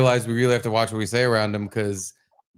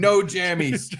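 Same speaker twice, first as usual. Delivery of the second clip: put-on higher-pitched little-kid refusal; protesting toddler; 4 semitones higher, slower than usual. Dad imitating his son who wanted to stay up, childish protest. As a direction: imitate a small boy refusing bedtime. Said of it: "he was going".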